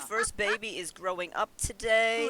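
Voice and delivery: put-on happy announcement of the baby growing up; mock happy. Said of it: "I am so happy".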